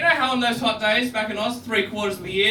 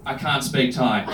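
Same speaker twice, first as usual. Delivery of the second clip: slow translation; 6 semitones lower, slower than usual. Shown as a demonstration. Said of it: "which means".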